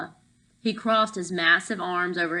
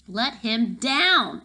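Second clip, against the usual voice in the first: slow, louder command; demanding; 4 semitones higher, 5 dB louder, much slower than usual. Acted. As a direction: order him firmly, word by word. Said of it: "Ella demanded".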